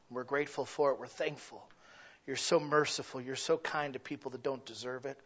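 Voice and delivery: earnest spoken prayer to God. Acted. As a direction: pray it humbly. Closing prayer.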